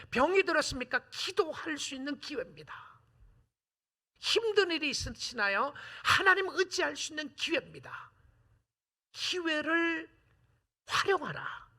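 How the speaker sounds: high, loud preaching climax; preaching at full force. Real, not acted. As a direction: rouse the congregation, building. Preaching crescendo. (점점 고조되는 설교)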